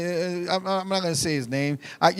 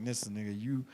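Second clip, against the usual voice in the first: low, very soft retort; quiet exasperation; 9 semitones lower, 17 dB quieter than usual. Retold or imitated. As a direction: imitate someone quietly giving up on him. Quoting Vince walking out.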